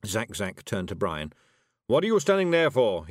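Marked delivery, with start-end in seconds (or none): 1.9-3.1 loud, higher, impatient outburst; demanding. Acted. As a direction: demand action from an idle employee. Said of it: "he demanded".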